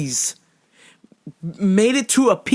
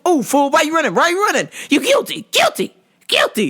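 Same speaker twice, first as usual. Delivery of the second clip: teasing taunt; 7 semitones higher, faster than usual. Retold or imitated. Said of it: "And I was like".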